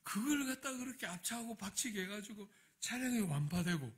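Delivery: remonstrate with God, building in pitch; bitter prayer. Retold or imitated. Pastor protesting the wrecked car to God, bitter. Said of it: "또 비통하게 기도했어요".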